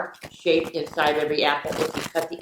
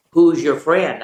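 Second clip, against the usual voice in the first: called out question; 5 dB louder than usual. Retold or imitated. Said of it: "then I'd say".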